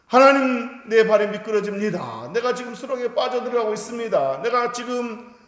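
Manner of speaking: high, loud desperate cry to God, easing off. Retold or imitated. Psalmist crying out to God as he slips, loud desperate plea. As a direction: cry out as if sinking into a pit. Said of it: "이렇게 부르짖을 때".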